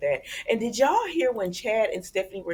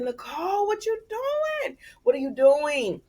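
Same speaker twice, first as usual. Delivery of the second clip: high, slow put-on alarmed voice; mock alarmed EJ; 9 semitones higher than usual. Vlogger imitating EJ confronting Nicole, high mock alarm. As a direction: play a startled man, stretched out.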